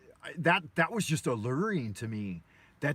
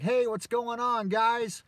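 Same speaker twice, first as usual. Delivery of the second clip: put-on higher, slow, cheery little boy greeting; innocent kid voice; 8 semitones higher, slower than usual. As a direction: play the naive kid rolling up friendly. Boy greets gangsters, retold.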